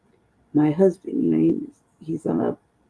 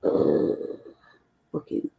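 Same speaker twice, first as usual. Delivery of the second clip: muttered shit talking; 5 dB quieter than usual. Retold or imitated. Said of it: "shit talking".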